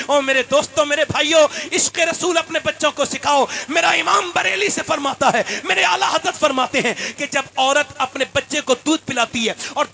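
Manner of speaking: loud, fervent sermon delivery; fiery pulpit preacher rousing the faithful; preaching at full force. Acted. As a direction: preach it hard to the crowd. Cleric preaching to congregation.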